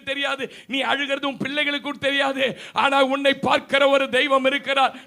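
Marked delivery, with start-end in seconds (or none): 2.7-5.0 loud preaching climax; loud proclamation. Real, not acted. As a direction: ring it out to the whole church. (உரத்த பிரசங்க அறிவிப்பு)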